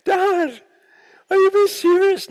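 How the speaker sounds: high, loud incredulous question; shocked disbelief. Retold or imitated. Son stunned by dad's drug question, high incredulous. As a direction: squeak it out in disbelief.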